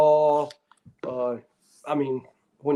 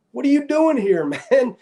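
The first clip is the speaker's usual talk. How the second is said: much higher, delighted surprise; surprised greeting; 9 semitones higher than usual. Retold or imitated. Old wrestling buddy spots him in the store, surprised and higher.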